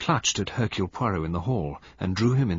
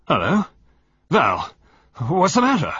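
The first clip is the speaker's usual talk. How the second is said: alarmed husband; 8 semitones higher, 7 dB louder than usual. A narrator's reading. Husband sees wife collapsing.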